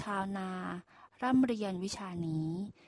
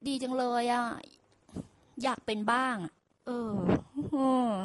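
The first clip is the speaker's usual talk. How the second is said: higher, half-whining wish; mock whimper of envy; imitating the ox's jealous tone; envious whine; 3 semitones higher than usual. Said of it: "ด้วยน้ำเสียงแบบ".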